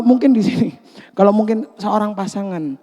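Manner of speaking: normal talking voice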